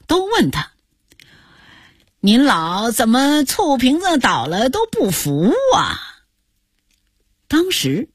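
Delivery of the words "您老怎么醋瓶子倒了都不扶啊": mock-concerned nosy question; teasing question. Viewers tease the old actor at breakfast, teasing question.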